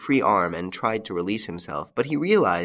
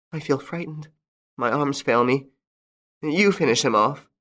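higher, shaken widow handing over the deed; a lightly voiced old woman losing her nerve; frightened widow; 6 semitones higher than usual. A narrator's reading. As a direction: widow pleading with her nephew, scared.

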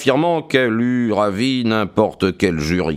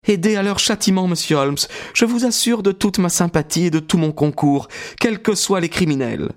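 put-on higher, resolute young woman's voice; firm young woman; 9 semitones higher than usual. A narrator's reading. Maud rebuking her brother William, firm young woman's voice.

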